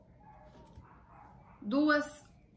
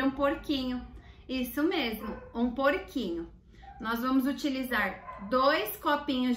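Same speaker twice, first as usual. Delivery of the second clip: put-on bright, upbeat greeting for children; kids show host; 2 semitones higher than usual. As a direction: talk to the kids at home with energy.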